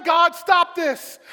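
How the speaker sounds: high, loud, slow demand; drawn-out shouted plea; desperate prayer. Acted. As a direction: cry out to God to intervene. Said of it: "and he's praying".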